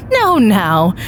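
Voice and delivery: lightly voiced magician, savouring each word; showman magician. Magician teasing the volunteer, slow showman patter.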